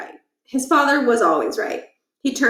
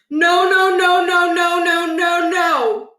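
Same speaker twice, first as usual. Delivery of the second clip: high, loud repeated no's in dismay; rising panic; 8 semitones higher, 5 dB louder, slower than usual. Acted. Scene: principal finds cows everywhere, panicked denial. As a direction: horror dawning.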